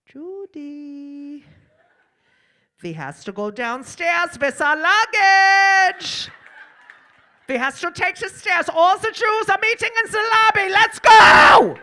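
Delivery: loud, high mock European accent, building to a shout; hammed-up European accent, drawn out then shouted; imitated European accent. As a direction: bellow orders in a thick put-on European accent. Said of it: "she starts talking like them".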